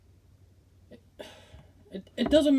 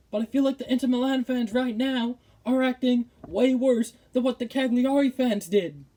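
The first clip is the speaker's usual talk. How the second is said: real anger; 3 semitones higher than usual. Real, not acted. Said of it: "I'm, I'm so angry".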